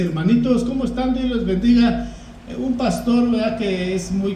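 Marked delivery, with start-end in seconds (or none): 0.0-2.1 sweet greeting. Retold or imitated. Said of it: "no les dice".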